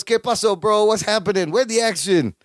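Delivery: lightly imitated Mexican accent; casual mock Mexican-accented greeting. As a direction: retell it with a touch of a Mexican accent. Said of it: "He does his Mexican accent".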